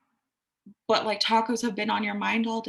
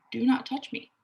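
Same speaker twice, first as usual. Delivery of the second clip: steady, unforced do not touch me; calm boundary; 3 semitones higher than usual. Shown as a demonstration. Client calmly telling the grabby man not to touch her. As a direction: say it plainly, without aggression. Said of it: "You don't have to be aggressive about it".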